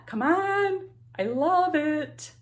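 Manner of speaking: high, gushing over the gift; delighted. Real, not acted. Vlogger showing off a cat bag, delighted gush. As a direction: coo over something adorable.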